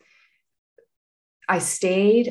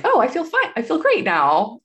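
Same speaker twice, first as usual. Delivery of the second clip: higher, mock-giddy relief; 7 semitones higher, 4 dB louder than usual. Mother retelling how good the epidural felt, mock giddy. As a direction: imitate her floaty epidural high, pitched up. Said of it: "just being like".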